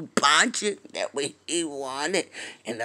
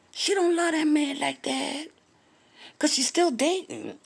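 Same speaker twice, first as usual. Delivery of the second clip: raised voice; 11 semitones higher than usual. Real, not acted. Gossip emphasis.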